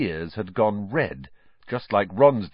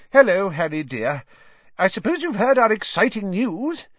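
motherly voice; 12 semitones higher, 6 dB louder than usual. A narrator's reading. Mrs Weasley's voice.

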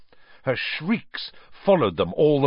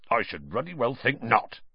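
growled; 2 semitones higher than usual. Acted. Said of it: "growled Hagrid".

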